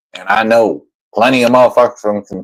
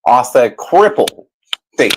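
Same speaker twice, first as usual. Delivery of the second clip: mock repeat. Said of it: "You inbred sounding motherfucker".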